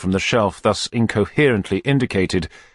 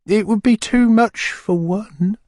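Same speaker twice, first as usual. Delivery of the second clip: murmured; 4 dB louder, slower than usual. Acted. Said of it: "murmured the lady".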